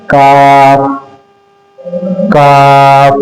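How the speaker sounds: काफ with a plain open long a; correct kaf. Shown as a demonstration. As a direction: hold काफ evenly, lips unrounded. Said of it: "इसको हम पढ़ेंगे इस तरह से".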